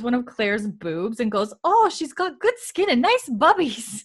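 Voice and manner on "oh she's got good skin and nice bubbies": high, loud, drawn-out appraisal; hammed-up squeal of approval breaking into laughter; gushing brothel girl. Brothel girl appraises the newcomer, acted.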